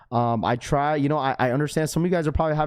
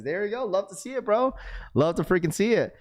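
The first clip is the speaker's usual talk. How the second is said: raspy voice; 6 semitones higher than usual. Real, not acted. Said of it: "I know my raspy voice".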